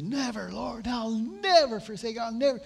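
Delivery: lightly voiced Peter insisting he'll never fall; Peter's brash vow.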